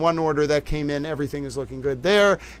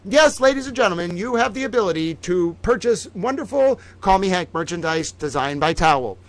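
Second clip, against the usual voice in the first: mock hostess. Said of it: "towel Vanna White mode".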